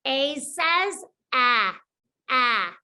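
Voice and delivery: "ah" as a short, open short-a vowel sound. Shown as a demonstration. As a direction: mouth wide, tongue flat, say "ah". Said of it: "Do this with me".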